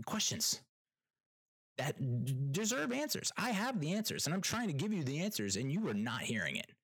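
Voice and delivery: high, exasperated rant at the stranger. Real, not acted. Venting to viewers about the nosy stranger, exasperated. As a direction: pitch it up in frustration.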